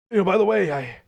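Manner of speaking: a weak, fading attempt at a dying man; half-hearted dying man voice. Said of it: "trying to, like, dying guy".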